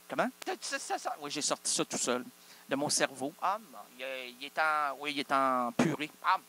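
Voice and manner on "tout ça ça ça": high squeaky voice of the ladle; a talking ladle squeaking; squeaky louche voice. Acted. Louche voice again.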